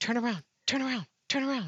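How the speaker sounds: high, repeated mutter under the breath. Retelling his wife urging him while in a Walmart line, imitating muttering under breath. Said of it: "under her breath".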